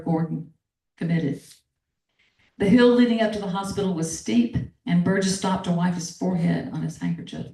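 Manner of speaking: steady storyteller's reading of a novel passage; reading aloud. Acted. Author reading her novel to the interviewer, measured narration. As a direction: read the excerpt like an audiobook narrator.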